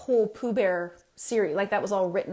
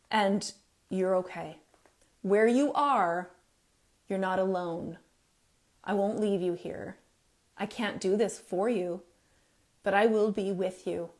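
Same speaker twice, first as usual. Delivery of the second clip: gentle reassurance. Shown as a demonstration. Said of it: "have someone say".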